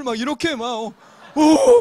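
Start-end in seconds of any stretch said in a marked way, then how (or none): 1.4-1.8 아주 높고 크게 터지는 탄성; 충격받은 척 과장되게; 기겁하는 흉내. Retold or imitated. 기겁하는 기독교인 흉내. (기겁한 탄성 흉내)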